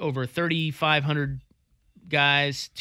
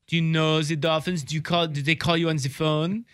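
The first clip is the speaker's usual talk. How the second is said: put-on foreign movie accent; Ace Ventura. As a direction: quote the film in a silly accent. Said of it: "Remember, he's like".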